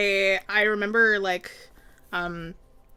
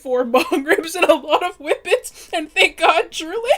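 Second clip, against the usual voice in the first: excited; 7 semitones higher, 9 dB louder, slower than usual. Real, not acted. High excited laughing rant.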